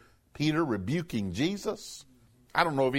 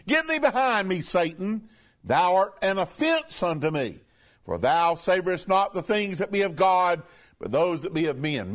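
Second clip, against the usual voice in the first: raised, firm command to Peter; emphatic rebuke. Retold or imitated. Jesus sharply rebuking Peter, emphatic. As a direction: hit it with emphasis. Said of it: "an emphatic statement to Peter".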